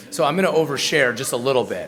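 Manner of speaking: says it through a quick laugh. Real, not acted. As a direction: laugh while teasing the crowd, a bit fast. Teasing audience about oversharing.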